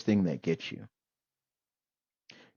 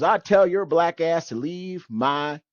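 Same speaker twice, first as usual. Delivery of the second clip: put-on hostile old man; 5 semitones higher, 5 dB louder than usual. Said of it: "he goes".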